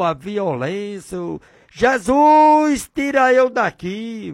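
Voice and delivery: anguished confession to Jesus; voiced prayer of a guilty listener; pleading sinner. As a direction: cry out your sins and beg to be freed. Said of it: "e você lá dentro".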